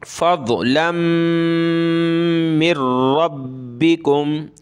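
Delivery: फज़लन मिर रब्बिकुम with the n merged into r, slow; tajweed idgham; nasal merge. Shown as a demonstration. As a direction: join the n into मिर and stress the r. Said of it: "नाक में आवाज़ पैदा करेंगे".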